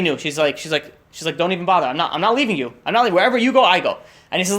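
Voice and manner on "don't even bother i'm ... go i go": insistent refusal. Retold or imitated. Wife refusing to leave her husband, insistent. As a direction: build to an insistent protest.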